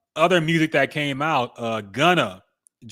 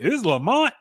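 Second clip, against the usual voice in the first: surprised question; 10 semitones higher than usual. Retold or imitated. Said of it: "And I was like".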